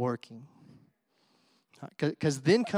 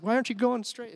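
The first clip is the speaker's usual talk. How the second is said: baffled yelp; 7 semitones higher than usual. Retold or imitated. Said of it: "And I was like".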